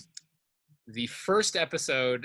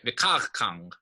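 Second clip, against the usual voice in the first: "Vikar kang" with "kar" as the strong syllable; "Vikar kang", falling away after a stressed "kar". Shown as a demonstration. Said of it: "The stress is still falling".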